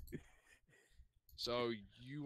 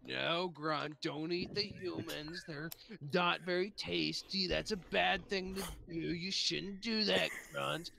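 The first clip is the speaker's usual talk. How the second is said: mock pious cleric; 3 semitones higher than usual. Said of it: "religious high piety types".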